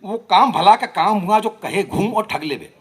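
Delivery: rhythmic, lilting verse recitation; poetry recital. Acted. Poet giving a playful reply to Faiz, rhythmic recital. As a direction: recite each line to a regular beat.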